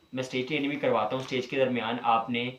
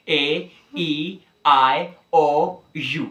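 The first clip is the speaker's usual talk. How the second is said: spelled-out vowels; 5 dB louder, much slower than usual. Shown as a demonstration. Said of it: "पांच आवाजें".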